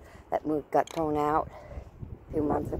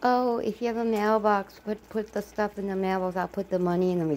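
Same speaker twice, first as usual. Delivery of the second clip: mock lady; 7 semitones higher, 4 dB louder than usual. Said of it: "that lady's like".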